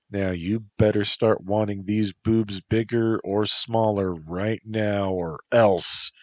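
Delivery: lightly voiced playful warning, harder on the last words; a half-serious ultimatum; Lilia, mock threat.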